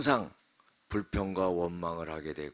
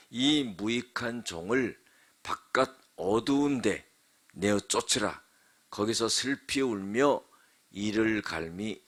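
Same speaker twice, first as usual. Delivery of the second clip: scripture recitation. Acted. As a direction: pronounce the verdict, stretching each final word. Recites the parable's closing verdict. (느리고 엄숙하게 끝을 늘이는 성경 봉독)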